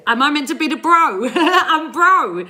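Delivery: high laughing disbelief. Real, not acted. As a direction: laugh it out, amused. Laughing at comment calling her bro.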